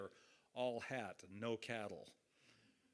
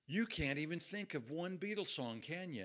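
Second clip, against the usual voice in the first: retold disbelief, pitched higher; mildly acted, aghast challenge to a clueless interviewer; horrified disbelief; 5 semitones higher than usual. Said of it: "he got this horrified look".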